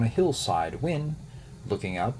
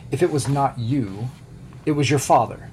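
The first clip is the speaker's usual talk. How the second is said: higher and louder, furious; angry wolf shout; 5 semitones higher, 6 dB louder than usual. A narrator's reading. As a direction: bellow the accusation, building. Wolf's angry accusation.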